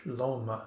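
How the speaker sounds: l'homme with the H unsounded; French l'homme, no H sound; silent H. Shown as a demonstration. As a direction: say l'homme the French way, starting straight on L and dropping the H. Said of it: "where the H is unsounded".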